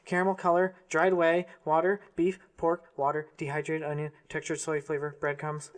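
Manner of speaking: half-hearted squeaky chipmunk rattling. Acted. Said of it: "I can't do a chipmunk voice".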